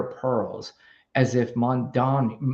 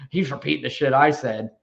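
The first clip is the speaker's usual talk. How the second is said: imitating laughing mockers. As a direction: play someone laughing under their breath at a dupe. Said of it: "They're laughing, going".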